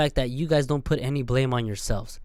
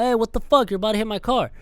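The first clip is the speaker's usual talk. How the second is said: a pitched-up, mildly indignant "hey, what the fuck"; mock angry driver; 5 semitones higher, faster than usual. Annoyed driver to biker, mock angry yell. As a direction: play the annoyed driver yelling at a biker, a hint of real heat. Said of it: "and you fucking honk at someone".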